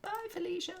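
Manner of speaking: high sassy dismissal. Pretend. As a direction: toss it off with sass.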